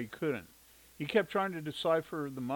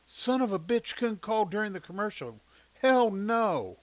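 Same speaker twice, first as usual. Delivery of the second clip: higher, louder fed-up grumble rising to a shout; aggravated rant; 8 semitones higher, 7 dB louder than usual. A narrator's reading. Mother fuming as she storms to answer the phone.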